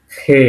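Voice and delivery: খে as a long "kheh" with friction; pronunciation demo. Shown as a demonstration. Teacher naming a Russian letter, খে drawn out as "kheh". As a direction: model খে with a rough kh, vowel held. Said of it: "মানে খ এর উচ্চারণ".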